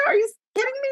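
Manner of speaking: can't believe what you heard; incredulous. Real, not acted. Mocking dated pickup line.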